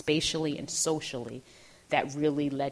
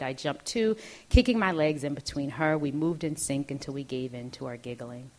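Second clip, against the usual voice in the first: measured, deliberate literary narration; memoir reading; 4 dB louder than usual. A narrator's reading. Author reads childhood memoir to an audience, measured narration. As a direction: read it as a composed author's reading.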